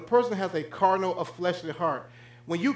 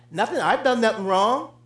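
bragging denial; 2 semitones higher than usual. Retold or imitated. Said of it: "Listen to this braggart".

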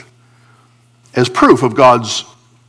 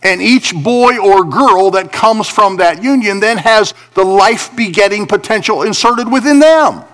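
raised pitch, driving sermon delivery; emphatic preaching; 6 semitones higher than usual. Real, not acted. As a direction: preach it in punched, separated phrases.

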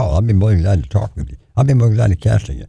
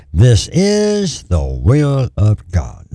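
very slow, weighty, every word drawn out; solemn divine voice, lightly voiced; voice of the Lord; 4 semitones higher, much slower than usual. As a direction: speak it as God's clear voice in the shower. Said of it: "the Lord spoke to me in a clear voice".

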